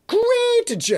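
a sudden high, loud mock cheer; sarcastic great. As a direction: throw it up high, dripping sarcasm. Narrator reacts to bad news.

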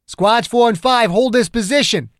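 high, loud battlefield order; shouted command. A narrator's reading. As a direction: bark the order over the gunfire. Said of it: "Ogden shouted".

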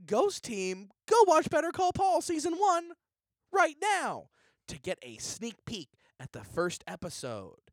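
hyped pitchman promo voice; cheesy promo announcer; ad read. Acted. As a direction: sell the show like a TV spot. Continues the ad read.

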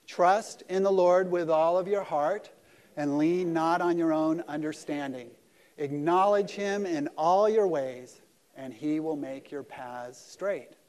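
slow, loud congregational recitation, word by word; group recitation. Shown as a demonstration. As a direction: lead the room through the verse together, slowly. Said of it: "Let's just say it again".

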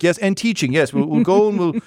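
a hint of a bustling, upbeat farm wife; Penny, brisk and cheerful. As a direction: sweep him along with cheerful resolve. GM voices Penny again.

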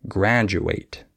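graduate with a J, graj-oo-ate; DU as J sound. Shown as a demonstration. Teacher giving an example, graduate with a slow J sound. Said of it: "with a J sound".

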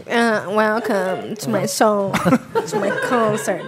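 slow, lightly voiced pop-star intonation; a hint of a mock singer's greeting, drawn out; a pop singer. Co-host mimics the singer welcoming fans to her concert, slow light impression. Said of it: "com essa entonação".

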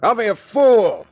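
impatient snap. Acted. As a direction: lose patience with him. Arguing through a locked door.

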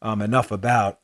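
talking around a coffee sip; words squeezed in between sips; while sipping a drink. Real, not acted. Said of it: "sorry about the drink of coffee during the show".

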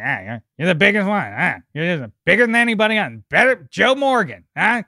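hint of an impression, riffing with interjected "huh?"; loosely mimicked needling radio host; Adam Carolla. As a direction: lightly imitate a radio host egging someone on. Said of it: "And then Carolla's like".

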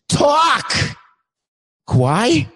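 sharp high cry of frustration; exasperated outburst. Acted. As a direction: snap it out high and fed up. Host losing patience with silent Kawhi.

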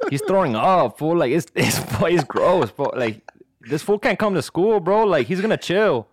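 lilting Mexican-American cholo voice; cholo accent. Acted. Cholo doctor refusing a permission slip, insistent Mexican-American accent. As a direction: play an insistent cholo with a swinging lilt. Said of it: "do that call in a cholo".

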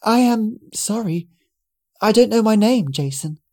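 hesitant and apologetic, hint of a smile; nervous girl. Confused girl tells Jason she has lost her name, nervously. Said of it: "smiled nervously".

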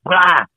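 mock retching "ah"; imitated throwing-up noise. Patient retelling fear of throwing up, mimed retch. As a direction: act out a sudden heave. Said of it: "I'm gonna throw up".

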